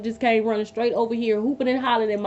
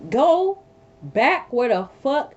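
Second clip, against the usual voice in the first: sudden shout; 3 semitones higher, much slower than usual. Retold or imitated. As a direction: blast it out to cut him off. Ordering the ex to leave.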